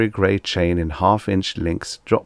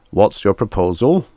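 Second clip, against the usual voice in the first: slightly raised, louder question; a hint of whistle in a loud query; whistled; 3 semitones higher, 5 dB louder than usual. A narrator's reading. Korn asking the envoy for terms, lightly whistled. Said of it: "Korn whistled".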